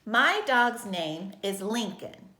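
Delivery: slow, measured reading of a statement, voice falling on "Lincoln"; telling statement. Shown as a demonstration. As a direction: read "My dog's name is Lincoln" as a simple telling sentence. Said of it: "just telling you about my dog".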